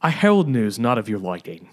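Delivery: stagey Australian-sounding herald; unintended Australian accent. Acted. William bringing Margaret bad news, accidental Australian accent. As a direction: ham up old-time speech in a wobbly Australian accent. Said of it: "I don't know why this is Australian".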